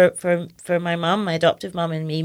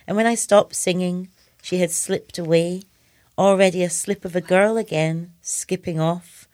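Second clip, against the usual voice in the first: measured elegy, pausing between lines; poetry reading. Acted. Poet reading for anybody who's lost somebody, measured elegiac recital. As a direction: read the memorial poem line by line, unhurried. Reads elegy for dead friend.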